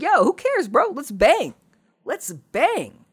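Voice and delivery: very high-pitched mock girl voice; imitating eager Laura. Laura brushing off the clone's worries, mock eagerness. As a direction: push it way up high, carefree and pushy.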